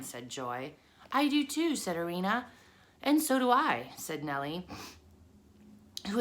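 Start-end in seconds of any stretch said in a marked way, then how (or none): 1.1-1.8 high tiny voice; high spider voice. Acted. 3.0-3.9 high tiny voice; high spider voice. Acted.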